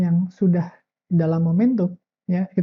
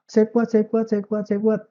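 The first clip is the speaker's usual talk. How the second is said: higher-pitched repetitive chant; rote affirmation; 3 semitones higher than usual. Acted. Coach demonstrating self-affirmation before doubt creeps in, rote chanting. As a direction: recite it over and over like self-talk.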